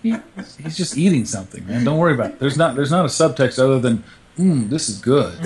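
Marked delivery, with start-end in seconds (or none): 4.4-5.3 mock satisfied eater. Voicing a character enjoying food.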